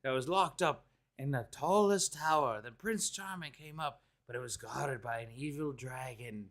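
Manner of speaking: a hint of a storybook narrator; storybook opening. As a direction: lightly read fairy tale narration. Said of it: "he's like".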